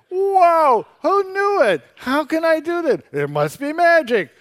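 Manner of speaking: high-pitched mock amazement; sarcastic. Real, not acted. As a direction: feign astonishment to ridicule the idea. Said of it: "why are you being so sarcastic".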